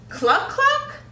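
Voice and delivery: high, loud wondering hen cluck; questioning cluck. Acted. Hen wondering what Gruntly will do, high questioning cluck. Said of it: "wondered Cluck".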